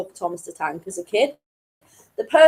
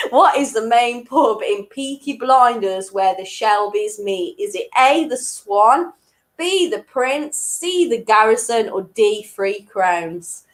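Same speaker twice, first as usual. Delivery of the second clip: amateurish Black Country accent; attempted Black Country accent. Shown as a demonstration. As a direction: quiz question in a poorly imitated Black Country accent. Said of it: "in my best black country accent".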